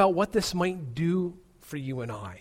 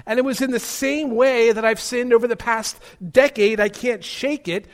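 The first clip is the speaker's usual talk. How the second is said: higher-pitched, anguished objection from the pews; mock protest shout; 4 semitones higher, 3 dB louder than usual. Preacher voices a doubting churchgoer's protest, mildly shouted. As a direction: voice a worshipper's emphatic confession, starting high. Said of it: "One may even shout this morning".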